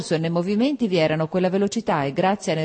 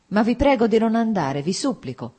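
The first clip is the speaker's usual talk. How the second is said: ma vi prego di non andare lifted and louder, then softening; a gentle, begging plea; Vronsky begging Anna not to go, tender; tender pleading; 6 semitones higher, 3 dB louder than usual. A narrator's reading. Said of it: "con tenera preghiera nella voce".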